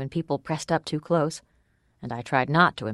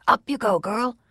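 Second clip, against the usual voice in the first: calling out; 8 semitones higher than usual. Acted. Man calls out over crowd.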